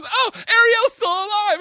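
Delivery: lightly voiced discovery; family realizing the wrong fish died; mock surprise.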